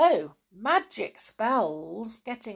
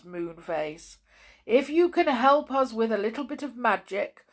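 gentle bear person; 4 semitones higher, 4 dB louder than usual. Acted. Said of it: "said the father bear".

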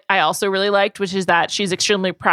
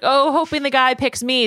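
lightly raised, high-pitched mimicry of a hopeful contestant; imitating a hopeful dating-show contestant, pitched up; mock high voice; 4 semitones higher than usual. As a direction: put on a slightly high, hopeful voice. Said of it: "a kind of, like, high voice".

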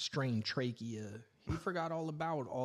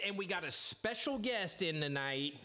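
higher, hyped host intro; excited announcement; 6 semitones higher than usual. Real, not acted. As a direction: hype up the arrival. Announcing a special guest.

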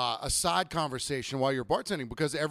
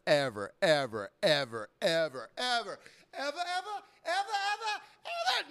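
escalating exasperation; 9 semitones higher than usual. Acted. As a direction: climb from insistent to very high and strained. Exasperated rant, repetition builds to strain.

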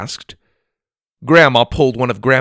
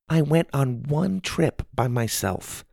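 soft, slightly raised grandma voice; 5 semitones higher, 7 dB quieter than usual. A narrator's reading. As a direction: gently plead your case. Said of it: "Grandma said softly".

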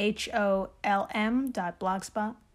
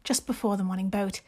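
hammed-up British accent, measured reading; amateur British accent with deliberate pauses; Jane Austen voice. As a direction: read it like a genteel British lady novelist. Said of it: "in your best Jane Austen voice".

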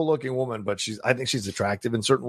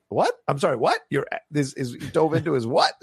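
mock surprise; 3 semitones higher than usual. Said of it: "And she goes".

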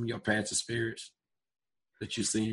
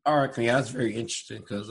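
hoarse, rough speaking voice; 4 dB louder than usual. Real, not acted. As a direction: talk through a hoarse throat. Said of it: "sorry my voice is hoarse".

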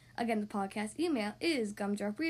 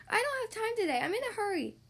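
higher, puffing and out of breath; 8 semitones higher than usual. Acted. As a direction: puff the words like hauling a load. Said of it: "puffed Squirrel".

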